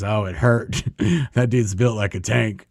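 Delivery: retold chuckling admission; lightly amused, imitating a tension-breaking joke; Marty, half-laughing. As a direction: let a small laugh into the words. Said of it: "Marty kinda laughs".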